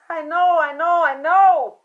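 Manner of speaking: high, loud, tearful "I know"; crying insistence. Retold or imitated. Mother tells her friend on the phone, crying out. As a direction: insist through tears, voice breaking high. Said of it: "Why are you crying?".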